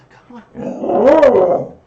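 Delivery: loud, high call to the puppy; calling the dog. Real, not acted.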